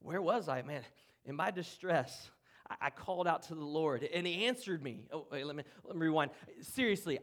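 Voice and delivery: Jonah retelling his story. Pretend. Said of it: "use literally Jonah's words from his prayer as if he's relaying his story".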